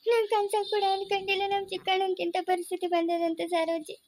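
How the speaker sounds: grieving, words running on towards sobs; tearful lament. Acted. Mourner confiding shock to Saroji, tearful. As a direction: lament on the edge of weeping. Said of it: "ಅಳ್ಬೇಡ ಕಲ್ಲು ಚಿಚ್ಚೆ".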